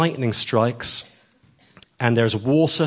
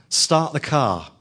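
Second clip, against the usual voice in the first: slow, firmer and a bit louder; a little louder; 3 semitones higher, much slower than usual. Retold or imitated. Preacher retelling friend urging taxi driver, slower and louder. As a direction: press the words a little harder. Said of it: "a little bit louder".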